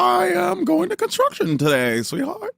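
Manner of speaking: mock construction worker bragging to his sweetheart; Jersey guy. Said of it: "Even the guys".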